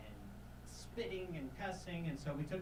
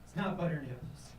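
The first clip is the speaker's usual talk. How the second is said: rising, flustered no no no; flustered denial; 4 semitones higher than usual. Retold or imitated. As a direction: hurry to correct the mishearing. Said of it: "I was like".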